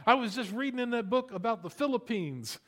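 mispronouncing new believer. Retold or imitated. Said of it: "mispronouncing all the names".

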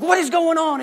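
high, stern mom demanding; a mild mock angry mother; mom's voice. Mom bursting in on the brothers fighting. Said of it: "my mom goes in".

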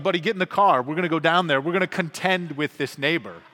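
rally your son into the car. Retold or imitated. Father to upset son, loud and determined. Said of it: "So I was like".

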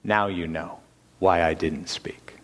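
low, hushed, half-whispered; quietly. Retold or imitated. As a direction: let it fall almost to a whisper. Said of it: "and he quietly said".

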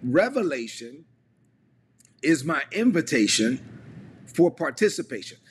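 slow, with long pauses after REVELATION and INVITATION; measured phrase-by-phrase delivery, pausing before "for participation"; slow dictation. Shown as a demonstration. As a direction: dictate it in three chunks for people typing. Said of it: "put it this way in the chat".

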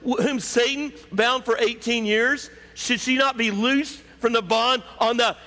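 high, pressing indignant question; shouted rebuke. Acted. Jesus demanding the bound woman be loosed, forceful rebuke. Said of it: "he just simply shouts out".

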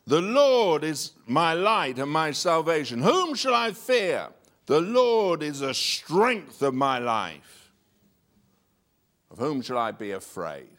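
loud, slow declaiming of the verse; psalm recitation. Acted. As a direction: proclaim the psalm with confidence.

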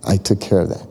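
soft whispered shh, then calm and low; a lightly voiced God calming a worried believer; God hushing. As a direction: soothe a worried child, hushing. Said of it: "and God says".

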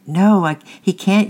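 put-on frightened boy's loud, high yell. A narrator's reading. Francis yells back to the man from the boat. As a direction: yell back over the rushing water. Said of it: "yelled Francis".

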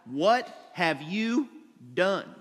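lightly voiced God confronting Adam, slow; slow, weighty question with a pause before the last word. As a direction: drag it out like a reckoning. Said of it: "God looks at Adam and he says".

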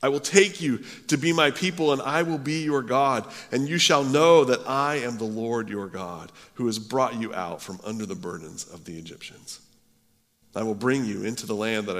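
measured, solemn reading of the text; scripture reading. Acted. Preacher reading the Bible to his congregation, solemn. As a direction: read the promise out with weight.

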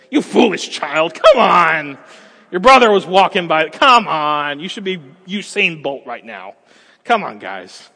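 harsh scolding parent, loud and impatient; wicked stepmother. Acted. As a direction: bark at the kid like a cruel stepparent. Harsh parent scolding falling child.

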